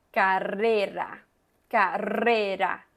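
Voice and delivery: teacher contrasting the two r's; strong first r. Shown as a demonstration. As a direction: roll the first rr of carrera, tap the second. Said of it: "la segunda R es un poquito más débil".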